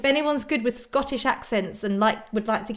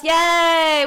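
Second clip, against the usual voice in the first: happy cheer; 6 semitones higher, 7 dB louder than usual. Real, not acted. Cheering viewers with Disney Plus.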